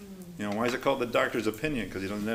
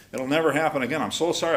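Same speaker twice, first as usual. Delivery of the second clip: imitated pleading apology, louder; tearful apology; 3 semitones higher, 6 dB louder, faster than usual. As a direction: plead loudly, acting out a crying promise. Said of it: "I'd be crying".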